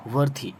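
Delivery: वर्थी ending in an aspirated "thee"; correct th ending. Shown as a demonstration. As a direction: finish वर्थी on th, not d. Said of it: "yes, थ अंत में होगा".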